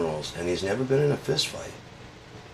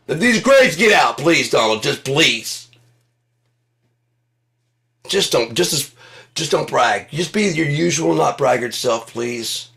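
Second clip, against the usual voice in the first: pleading Mensa; 6 semitones higher, 6 dB louder than usual. Acted.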